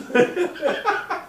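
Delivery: high burst of real laughter; laughing. Real, not acted. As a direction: crack up loudly at your own joke. Laughs at own joke.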